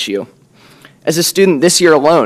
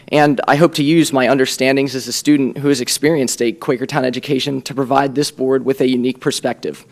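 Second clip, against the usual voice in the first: raspy voice. Real, not acted. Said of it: "apologize for my raspy voice this evening".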